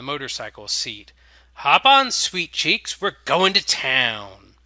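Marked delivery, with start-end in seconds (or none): 1.5-4.5 loud, much higher, cheeky biker vampire; brash flirty vampire. A narrator's reading. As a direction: bellow the invitation like a lecherous showman.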